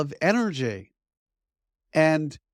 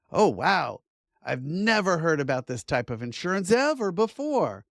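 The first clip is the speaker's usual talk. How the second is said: mock overexcited; 4 semitones higher than usual. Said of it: "they're too excited about something like".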